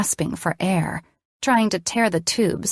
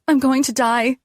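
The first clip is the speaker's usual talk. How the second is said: high, frightened cry; panicking; 7 semitones higher, 3 dB louder than usual. A narrator's reading. Panicking patient crying out in bed, high and frightened. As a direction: sound sure you're dying.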